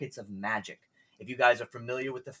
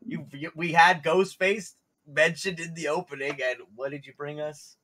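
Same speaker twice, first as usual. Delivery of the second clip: excited; 7 semitones higher, 11 dB louder than usual. Real, not acted. Host hyped by player's costume.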